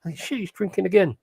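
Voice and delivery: high-pitched retold exclamation; acted-out reaction. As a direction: imitate someone exclaiming, pitch jumping up. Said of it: "was literally".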